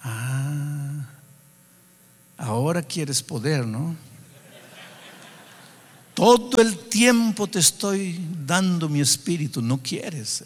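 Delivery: a gently mocking inner voice, mildly played; gentle ironic voice of the Spirit. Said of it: "una voz como diciendo". (voz del Espíritu, suave y algo irónica)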